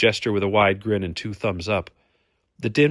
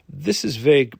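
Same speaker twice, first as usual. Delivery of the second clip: loud, raised indignant rumble; rumbling complaint; 6 semitones higher, 6 dB louder than usual. A narrator's reading. Brune objects to his friend's guess, indignant rumble. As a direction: grumble it out forcefully. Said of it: "Brune rumbled".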